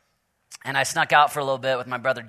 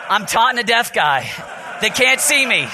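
higher, louder mock shout of dismay; embarrassed realization; 7 semitones higher, 4 dB louder than usual. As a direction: blurt it out in comic horror. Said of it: "and I was like".

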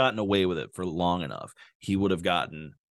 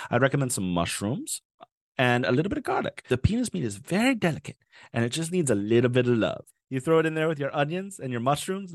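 higher, sing-song TV chef patter; mock cooking show host; 5 semitones higher than usual. Host walking viewers through a recipe, hammy TV chef. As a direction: sell the dish like a hammy TV chef. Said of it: that it was the host's own kitchen, "a new cooking segment".

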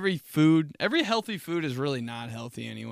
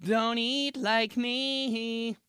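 slow, high, drawn-out dad warning; 10 semitones higher, much slower than usual. Retold or imitated. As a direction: stretch it out like a corny dad. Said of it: "Hashtag things dad said".

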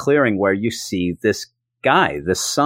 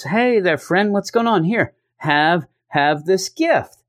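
higher-pitched, lightly hammed-up friendly greeting; put-on friendliness; 7 semitones higher than usual. Cable greeting strangers with a gift, overly friendly. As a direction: sound like a harmless pal offering a present. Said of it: "to show that you're friendly".

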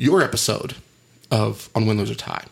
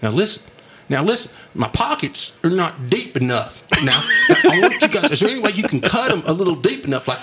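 higher-pitched comic Texan, laughing through it; Lyndon B Johnson, Texas accent; 7 semitones higher, 3 dB louder than usual. Retold or imitated. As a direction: imitate a Texan president making demands of his tailor. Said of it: "he's still Texas accent".

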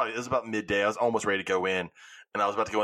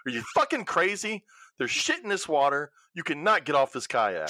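alarmed inner voice; 5 semitones higher than usual. Retold or imitated. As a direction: pitch jumps higher, a panicked voice of reason in her head. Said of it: "the other part of my mind was like".

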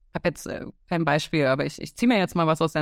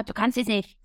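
mock grumbling; 2 semitones higher than usual. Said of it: "so eher, ne, so Gemecker".

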